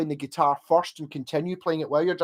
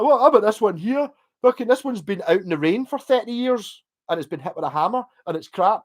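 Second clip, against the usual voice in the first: indignant complaint; 5 semitones higher than usual. Retold or imitated. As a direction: complain in a huffy voice. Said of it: "I was like".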